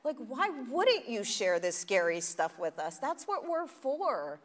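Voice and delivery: a friend's loud, high, slow mock scolding. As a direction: play the friend who scolds you lovingly. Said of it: "She's like".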